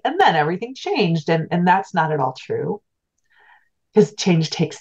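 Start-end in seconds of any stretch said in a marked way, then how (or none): 0.0-1.3 mild mock-dramatic narrator voice; dramatic book narrator. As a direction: read it like the big turning point in a memoir. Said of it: "if I were writing a book, I'd be like".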